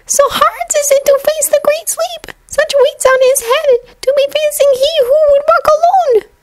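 very high elf voice with a touch of sorrow; a tiny house-elf pitying his master; Dobby, sadly. Acted. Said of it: "Dobby said sadly".

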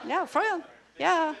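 high, laughing yes. Real, not acted. Teacher insisting the trophy story is true, laughing. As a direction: laugh it out, still amused.

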